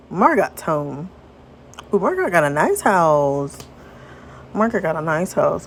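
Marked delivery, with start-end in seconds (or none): 1.9-3.6 sing-song admiration; admiring coo. Acted. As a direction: coo over the nice house. Admiring exclamation, then repeated more plainly.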